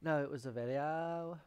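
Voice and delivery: lightly put-on Valley Girl accent. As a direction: stretch the last vowel like a Valley Girl. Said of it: "Stop talking in Valley Girl voice".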